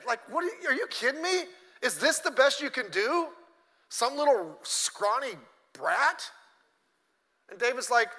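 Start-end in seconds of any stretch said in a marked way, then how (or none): 0.3-6.3 offended Goliath. Retold or imitated. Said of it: "he's offended".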